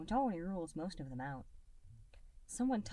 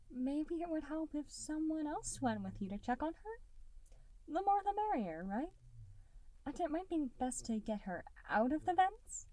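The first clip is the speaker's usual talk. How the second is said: delicately; 10 semitones higher than usual. A narrator's reading. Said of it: "Soap suggests delicately".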